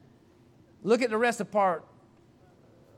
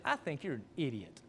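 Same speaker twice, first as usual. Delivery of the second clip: soft, low, matter-of-fact insult; unangry provocation; 4 semitones lower, 7 dB quieter than usual. Retold or imitated. Preacher baiting his friend to prove a point, unangry provocation. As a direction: needle him quietly, without anger. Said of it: "I wasn't mad".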